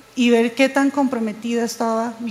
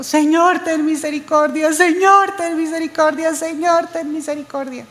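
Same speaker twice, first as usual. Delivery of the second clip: retold tearful plea; 4 semitones higher than usual. Crying prayer during painful procedure.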